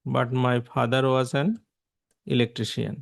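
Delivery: slow, carefully spaced English sentence; slow example read. Shown as a demonstration. Teacher dictating an example sentence slowly to students. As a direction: read it out word by word for the class. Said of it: "যেমন".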